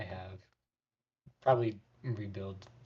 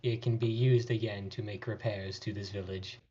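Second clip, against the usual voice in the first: flat robotic voice. Acted. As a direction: speak like a simple-minded robot. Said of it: "put on his robotic voice".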